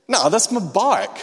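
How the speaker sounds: high, loud and slow, leaning on no; indignant insistence. Retold or imitated. Refusing the thief's offer, a loud, slow, indignant no. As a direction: refuse to back down, stubborn and loud. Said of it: "I wasn't feeling the anointing".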